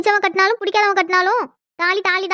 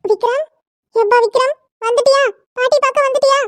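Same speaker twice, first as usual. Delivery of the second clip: higher and louder, calling across the house; excited calling out; 5 semitones higher, 4 dB louder than usual. Acted. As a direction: call out gladly to the grandson. Grandmother calling out to grandson.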